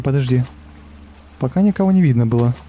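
normal talking voice

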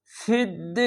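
ফিদ্দিন with a very long held "ee"; three-alif stretch. Shown as a demonstration. Teacher showing the stop at verse end, vowel greatly prolonged. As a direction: stretch the second vowel of ফিদ্দিন steadily before closing on N. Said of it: "তিন আলিফ টেনে পড়বেন".

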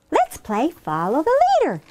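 high, excited suggestion; eager child. Acted. Henrietta inviting Claire to play, excited. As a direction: propose a game in a high gleeful voice. Grinning Henrietta proposes a game.

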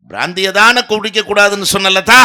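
high, loud hammed-up declamation; dying film hero. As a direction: cry out dramatically to the beloved, mock-tragic. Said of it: "அப்படின்னு அவர் சாவாரு". (Cinema நாயகன் போல உரக்க, சோக மிகைநடிப்பு)

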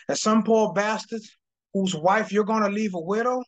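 lightly voiced tough cop threat; Al Pacino role. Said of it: "auditioning for the part of Al Pacino in the movie Heat".

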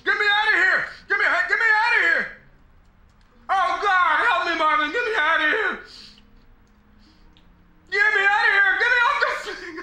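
mock scream. Screaming for help, laughing.

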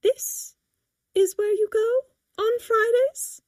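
slow, high-pitched disbelief; incredulous. A narrator's reading. Mother questioning her daughter's Fridays, incredulous. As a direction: ask it as if you can't believe it. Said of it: "she asks incredulously".

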